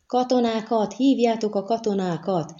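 high-pitched, held-back shout; calling for soldiers. A narrator's reading. Another miner calling for the soldiers, crying out. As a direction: call out urgently without full volume. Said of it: "kiáltott egy másik bányász".

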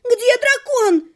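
high, loud, slow angry yell; angry crowd shout. A narrator's reading. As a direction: shout at the stage in fury. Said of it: "поддержала толпа".

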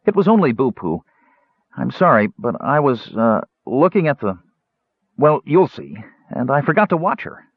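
high, halting, flustered explanation; apologetic kender. Acted. Tas excusing himself to Caramon, flustered and high. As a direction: stumble through an excuse in a high voice.

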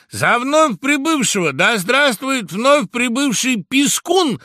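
high, loud chanted welcome; bird choir greeting. Acted. The bird choir loudly greets the mouse. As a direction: hail the newcomer together. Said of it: "приветствовал его птичий хор".

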